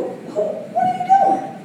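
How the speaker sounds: high, slow, startled squeal; squealing what are you doing; mock shocked squeal. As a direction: act out the shock in a sudden high voice. Retold shocked reaction.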